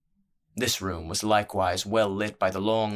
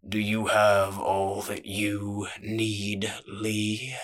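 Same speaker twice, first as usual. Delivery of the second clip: big man's slow, self-satisfied voice; genial menacing boss; much slower than usual. Acted. Crime boss explaining his trade to the thief, genial menace. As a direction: sound generous while the threat hangs.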